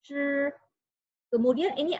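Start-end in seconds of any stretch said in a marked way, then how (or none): 0.1-0.5 Zhi held level and high; flat first tone. Shown as a demonstration. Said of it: "intonasi pertama, datar".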